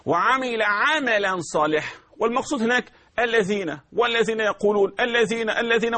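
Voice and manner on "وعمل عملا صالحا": slow Quranic recitation; recited slowly. Shown as a demonstration. Teacher recites for students, slow and careful. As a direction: recite each word with care.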